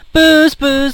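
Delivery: loud call of the firemen; crying out. Acted. Firemen banging on the door, calling out. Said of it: "the fireman cried".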